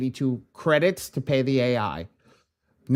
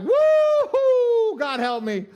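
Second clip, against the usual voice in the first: mock yelp of pain; 5 dB louder, much slower than usual. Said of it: "I was like".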